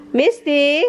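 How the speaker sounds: high sing-song pet voice. Real, not acted. Asking the dog Misty where Dada is, in baby talk.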